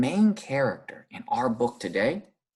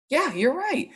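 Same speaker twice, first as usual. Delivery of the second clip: much higher bright praise. Acted. Teacher praising a student's answer, high pitched. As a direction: cheer the child on.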